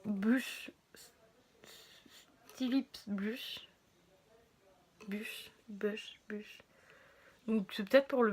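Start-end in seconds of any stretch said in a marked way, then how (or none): 0.0-6.2 whispering. Real, not acted. Reading brand name under breath. 6.3-6.6 whispering. Real, not acted. Whispered label reading.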